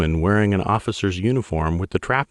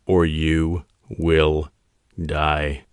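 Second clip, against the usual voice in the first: slow, even and cold; each word slow and measured; 2 semitones lower, much slower than usual. Acted. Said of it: "his tone even".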